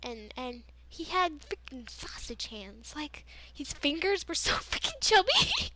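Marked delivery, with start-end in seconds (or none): 3.5-5.7 high-pitched, laughing through the words. Real, not acted. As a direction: crack up while describing it. Cracking up at teacher's hands.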